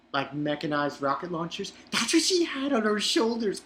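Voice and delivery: gushing, can't believe what he saw; excited. Real, not acted.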